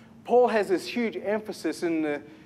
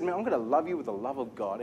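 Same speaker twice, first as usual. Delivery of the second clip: mock pious vow; 5 semitones lower, 5 dB quieter, faster than usual. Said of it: "have you ever said".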